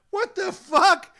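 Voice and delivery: stunned, laughing disbelief; half-laughing what-the-hell; shocked. Retold or imitated. Waking dazed in the ring.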